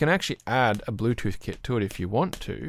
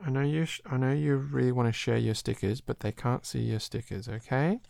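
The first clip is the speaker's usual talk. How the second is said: gentle parent; 2 semitones higher, 4 dB quieter than usual. Real, not acted. Dad soothing child about stickers.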